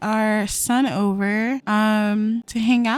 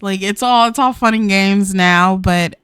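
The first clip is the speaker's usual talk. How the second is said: louder, heartfelt reluctant goodbye; mock-sincere louder plea to end the affair; earnest breakup speech; 4 dB louder than usual. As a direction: say it like you don't mean it but must. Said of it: "I feel like she'd say it like that".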